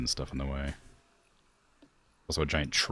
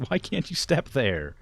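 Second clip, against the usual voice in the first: loud, high exasperated question; baffled complaint at the screen; 9 semitones higher, 3 dB louder than usual. Real, not acted. Frustrated at pathing.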